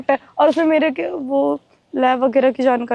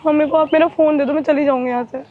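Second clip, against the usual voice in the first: crying on the phone; 3 semitones higher than usual. Real, not acted. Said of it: "रो रही हो क्या?".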